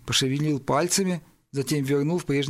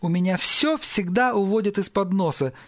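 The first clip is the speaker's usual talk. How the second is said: mildly tearful complaint, pitched up; holding back sobs; 5 semitones higher than usual. Acted. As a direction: complain as if close to tears. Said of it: "еле сдерживая рыдания, пробормотал Пол". (еле сдерживая рыдания)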